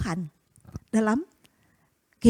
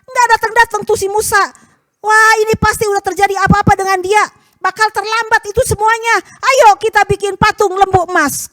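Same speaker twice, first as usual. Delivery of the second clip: grumbling people; 7 semitones higher, 4 dB louder than usual. Acted. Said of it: "Umat Tuhan bilang".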